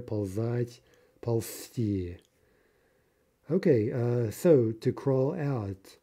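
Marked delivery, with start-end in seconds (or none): 0.0-2.2 "ползать" stressed on the first syllable, "ползти" stressed on the last; teacher models where the stress falls in "ползать" and "ползти"; stress contrast. Shown as a demonstration. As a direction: hit the first syllable of "ползать", then land on the end of "ползти". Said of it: "Note the stress there".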